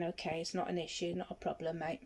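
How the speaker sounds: softly calming an agitated lad; calm low voice. Retold or imitated. Guard calming a young lad accused of stealing, gently. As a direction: settle him down, gentle and low. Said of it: "in my really calm, low voice".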